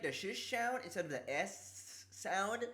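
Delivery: "S sound" with the S slurred toward "sh"; S turned to SH. Shown as a demonstration. Sore-mouthed streamer explains to chat, S in "sound" slurred to "sh". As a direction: say "sound" close to "shound". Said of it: "when I do".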